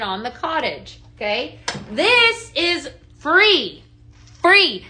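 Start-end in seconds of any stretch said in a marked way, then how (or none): 1.9-4.9 higher and louder, very slow on free; gleeful emphatic reveal to viewers; thrilled exclaim. Real, not acted. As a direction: savour the word free.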